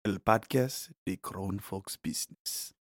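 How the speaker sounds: slow, grand Spanish sports announcer. Pretend. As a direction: announce it like ESPN Deportes. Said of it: "That's, like, your announcer voice?".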